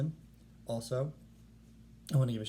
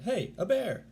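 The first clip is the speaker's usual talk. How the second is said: much higher, louder cry of discovery; excited cry; 10 semitones higher, 4 dB louder than usual. Acted. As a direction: shout it like you spotted something amazing. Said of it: "and cried".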